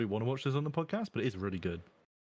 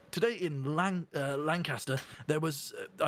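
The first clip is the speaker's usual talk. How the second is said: improvised news bulletin in RP accent; RP newsreader; 2 semitones higher, slower than usual. Shown as a demonstration. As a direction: read it like British broadcast RP. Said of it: "trying to make up a news article".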